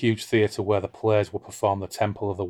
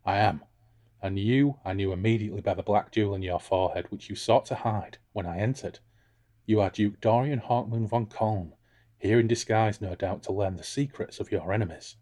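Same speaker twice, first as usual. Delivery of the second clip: Flana; 3 dB quieter than usual. Acted. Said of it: "I'm gonna be Flana".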